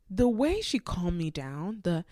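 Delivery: stuffy nose from a cold; congested voice. Real, not acted. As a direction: talk through a blocked nose. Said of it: "God, I sound so congested".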